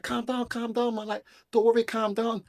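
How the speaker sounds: high-pitched, insistent reassurance; re-enacted urgent soothing; retold calming down. Retold calming someone who panics.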